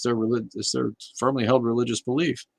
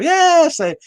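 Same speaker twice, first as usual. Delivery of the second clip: excited yes; 11 dB louder than usual. Real, not acted. Agreeing with a comment.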